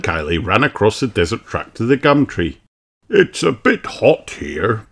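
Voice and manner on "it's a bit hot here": panted. Acted. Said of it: "panted Daddy Pig".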